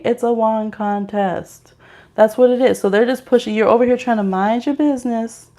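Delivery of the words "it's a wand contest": slow deadpan repeat. Shown as a demonstration. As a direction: drag out "It's a wand contest" deadpan.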